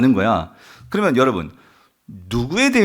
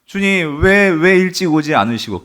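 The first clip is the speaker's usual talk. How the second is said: higher, pleading mock wail; mock lament; 5 semitones higher, 5 dB louder than usual. Mary reproaching Jesus for coming late, acted lament. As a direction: cry out in acted reproach to the Lord. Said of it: "엎드려서 통곡하는 거가 땅을 치면서".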